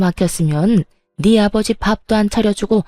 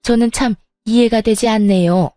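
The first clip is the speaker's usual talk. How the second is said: sneering sarcasm. Acted. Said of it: "얄밉게도 비아냥거리며".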